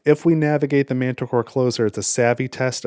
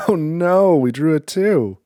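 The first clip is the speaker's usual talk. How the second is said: a rueful laugh breaking into oh no, higher and louder; laughing dismay; 6 semitones higher, 5 dB louder, slower than usual. Real, not acted. Player groaning at a bad card draw, laughing dismay.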